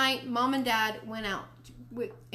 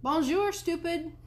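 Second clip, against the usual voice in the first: high-pitched mynah greeting; bird voice; 9 semitones higher, 4 dB louder, slower than usual. A narrator's reading. Mynah bird greeting the boy, bird voice. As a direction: parrot it high, like a cheeky bird. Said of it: "he greeted me with".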